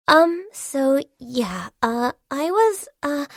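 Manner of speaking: halting, awkward fumbling for words; hesitant, filler-laden lead-in; nervous hesitation. Acted. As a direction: stall nervously before asking. Nervously asking for feedback on work.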